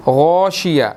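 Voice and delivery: غاشیہ with a thick, full-mouthed heavy ghain. Shown as a demonstration. Teacher demonstrates the heavy letter, thick ghain. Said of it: "موٹے حروفوں میں سے ہے".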